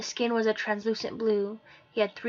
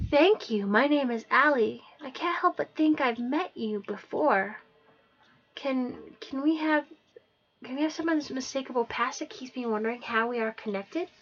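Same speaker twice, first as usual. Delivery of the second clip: put-on lightly higher girl voice; 4 semitones higher than usual. Allie speaks to Aiden.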